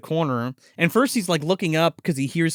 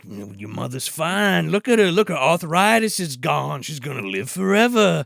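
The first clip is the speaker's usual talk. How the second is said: slow, low, drawn-out villain voice; lightly hammed-up villain reassurance; smug vampire; 3 semitones lower than usual. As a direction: savor each word like a gloating monster. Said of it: "he's like".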